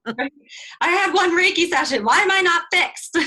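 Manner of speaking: high, loud whiny complaint; mock whiny impatience. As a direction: whine like a spoiled beginner. Mocking impatient healer.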